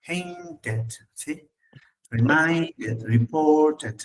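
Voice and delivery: "Painted", "Reminded", "reported" with each -ed ending sounded; Spanish-style pronunciation. Shown as a demonstration. Teacher encourages students to read endings, pronounced Spanish-style. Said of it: "Es como en español".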